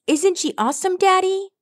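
put-on high-pitched admiring little kid; beaming child. A narrator's reading. Young Rockspot to his father about Rainbow Dash, beaming admiration. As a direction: pipe up high, proud and delighted. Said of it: "Rockspot beamed".

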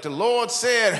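high, loud preacher hacking out words; mock a preacher choking on phlegm; preacher clearing phlegm. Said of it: "He'd be like".

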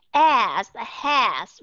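"As, has" with an open E-like vowel; teacher demoing "As, has"; model short A words. Shown as a demonstration. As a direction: say "As, has" clearly and separately. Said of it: "Bạn thấy rõ ràng không?".

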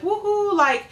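very high whoop, then slow; cartoon vultures celebrating the rescue, cheering; happy vulture cheer. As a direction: cheer like a relieved cartoon bird. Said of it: "really happy".

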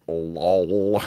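"Lol" said as one word, like "lawl"; chat slang pronounced. Shown as a demonstration. Reading her chat spelling aloud, "Lol" said as "lawl". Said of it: "she spells it L A W L".

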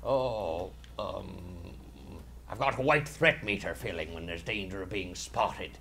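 a hint of a salty pirate. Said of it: "This particular voice".

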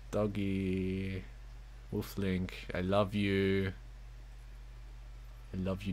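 low, soft words of affection; tender cooing. Real, not acted. Player telling Wolf Link of their love, tender cooing. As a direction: coo softly to an adored pet. Professing love to game dog.

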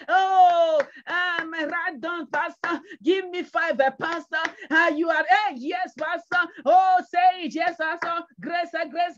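lightly hammed-up cheering along; mimicked congregation. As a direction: imitate a flock egging on its pastor.

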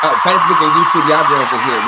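high, loud, laughing hello to the viewers; big excited welcome to the live chat; loud greeting. Real, not acted. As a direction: call out to the whole room with a laugh.

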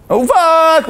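put-on high toddler dismay. Toddler realizing mommy won't come, high dismay. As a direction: let it drop on you that mommy said no. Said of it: "is like".

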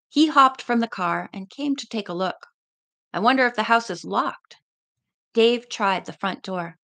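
steady read-aloud narration; story narration. A narrator's reading. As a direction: read the chapter to listeners. Reads the novel aloud.

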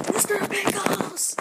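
high, slow, drawn-out silly voice. Pretend. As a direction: sing out the name in a goofy high voice. Excited about lunch treat.

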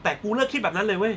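hammed-up melodramatic confession; Thai soap heroine. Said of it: "ทำตัวเป็นนางเอกละครไทย".

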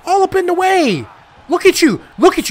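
high-pitched, strained complaint; exasperated yell. Real, not acted. Player telling the ref to clear off, exasperated. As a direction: holler at someone blocking you, voice way up. Yelling at obstructing referee.

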